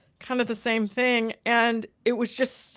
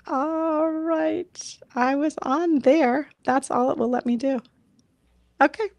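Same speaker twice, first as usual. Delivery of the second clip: big hall echo; 5 semitones higher, 7 dB louder than usual. Real, not acted. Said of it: "if I sound echoey".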